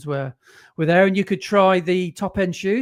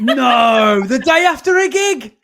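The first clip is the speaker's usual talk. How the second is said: laughing disbelief; 5 semitones higher, 7 dB louder, slower than usual. Real, not acted. Laughing disbelief at the race story.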